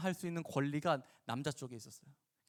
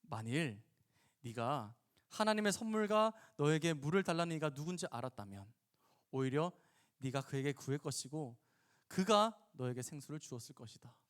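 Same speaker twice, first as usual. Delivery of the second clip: gentle reply. Acted. Jesus answers the wary woman, gently. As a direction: explain it gently, pausing between phrases. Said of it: "예수님은 부드럽게 다시 말씀하십니다".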